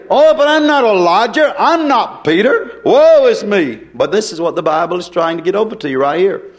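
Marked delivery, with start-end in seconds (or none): 0.1-3.8 higher, lightly whining woe-is-me; mock self-pity. Listener excusing himself, in a mock self-pitying whine. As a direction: mimic a listener feeling sorry for himself. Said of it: "You say".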